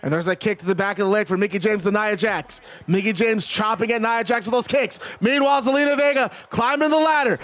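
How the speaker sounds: ringside commentator's running call; live wrestling play-by-play. Acted. Streamer calls kicks and a ladder climb, play-by-play. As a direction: narrate the kicks like a match announcer.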